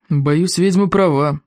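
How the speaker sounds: put-on slow, tired old man's voice; weary old elder. Old elder admitting the witch is right, weary. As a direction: concede it slowly, like a weary elder. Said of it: "Старейший старейшина вздохнул".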